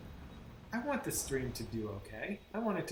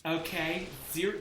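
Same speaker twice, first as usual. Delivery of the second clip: imitating condescending witness; 3 semitones higher, 6 dB louder, slower than usual. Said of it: "the way she speaks is infuriating".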